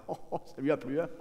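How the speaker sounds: giggling boast; laughing gloat. Acted. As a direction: snigger as you brag. Gloating about mistress, laughing.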